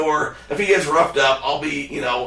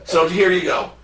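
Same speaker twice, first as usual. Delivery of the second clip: mildly exasperated, higher-pitched retold demand; Adam; 4 semitones higher than usual. Bettor demanding his money from the ornery clerk, mock exasperated. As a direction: plead the case with pitch starting high, then easing down. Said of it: "Adam's like".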